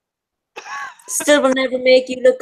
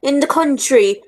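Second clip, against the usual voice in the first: hammed-up stage Irish lilt, a bit higher; mock Irish accent; 4 semitones higher than usual. Mocking a film's fake Irish accent, hammed-up stage Irish. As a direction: play the cheesy old-film Irishman. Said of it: "Darby O'Gill and the Little People".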